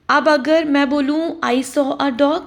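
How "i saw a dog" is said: slow, deliberate example sentence; teacher demonstrating a slow example. Shown as a demonstration. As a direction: spell it out slowly for the class. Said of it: "मतलब कोई भी dog".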